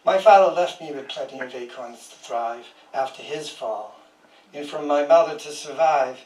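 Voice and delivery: measured, even poem reading voice; poetry reading. Acted. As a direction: read each line as a poem, letting it settle. Reads a poem aloud.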